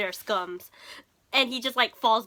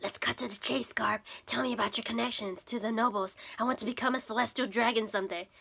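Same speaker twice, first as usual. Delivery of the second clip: mock whisper; 5 dB quieter, faster than usual. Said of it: "he's just whispering to Garp".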